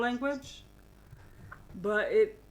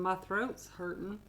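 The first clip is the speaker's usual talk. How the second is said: put-on southern accent; 4 dB quieter than usual. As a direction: quote the son with a hint of Southern twang. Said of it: "You're already going southern".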